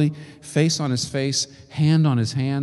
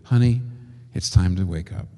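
tender; 5 semitones lower than usual. Retold or imitated. Jesus gently waking the dead girl, tender. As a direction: gently coax her awake. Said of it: "With astonishing tenderness".

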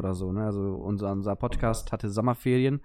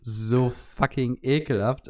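disgusted; much slower than usual. Real, not acted. Disgust at Aperol Spritz.

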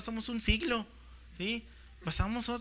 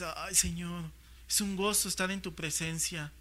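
delighted prayer; 2 semitones lower, 5 dB quieter than usual. Acted. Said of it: "¿te deleitas con el Señor?".

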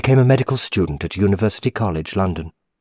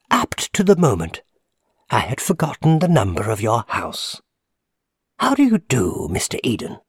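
lightly voiced old man, higher; a hint of a frail old man; 4 semitones higher than usual. A narrator's reading. Old man greets narrator.

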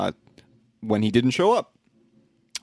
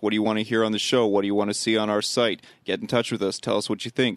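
quick upbeat promo read. Acted. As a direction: rattle off the plug briskly. Website plug read.

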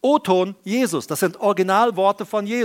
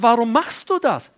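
God's rebuke; 3 semitones higher than usual. Retold or imitated. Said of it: "Gott sagt".

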